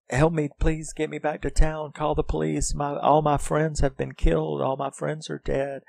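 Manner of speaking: high, imitated pleading girl; meek little voice. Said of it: "in her quiet little way".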